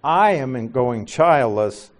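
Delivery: "I" punched at the start, slow delivery; stress on I. Shown as a demonstration. Quoting childless Abram to God, stress on "I". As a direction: stress "I" and take the rest slowly. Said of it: "I" is emphatic".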